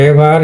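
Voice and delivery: "এভার" opening with e, not ee; teacher's demonstration of "এভার" with an e vowel; correct short E. Shown as a demonstration. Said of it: "এটা কিন্তু ইভার হবে না".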